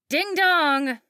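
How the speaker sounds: put-on bully the kid like a spiteful mom; coked-up mom taunting her daughter at the wheel; mocking drunk mother. A narrator's reading. Christy taunting.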